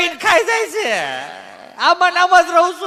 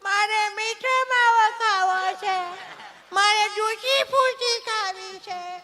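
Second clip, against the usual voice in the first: put-on whiny child; 7 dB quieter, slower than usual. Child whines for sweets.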